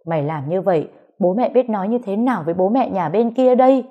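beating her son while cursing him; mother rails at son as she beats him; furious scolding. Acted. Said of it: "vừa đánh vừa đấm bà vừa chửi".

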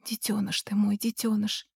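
soft, hushed and tender. A narrator's reading. Mother hushing her crying son tenderly. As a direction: soothe him gently.

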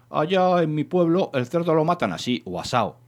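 keen to tell about back home; proud telling. Acted. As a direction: lift the pitch and show off your village a little. Villager eager to boast of hometown.

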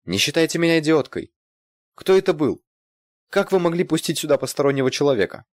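high, loud angry scolding. A narrator's reading. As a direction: tell her off furiously. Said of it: "разозлилась Ирина".

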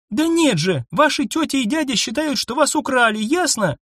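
put-on high, exasperated girl's voice; exasperated young woman. A narrator's reading. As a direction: throw up your hands in exasperation. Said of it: "всплеснула руками Анна".

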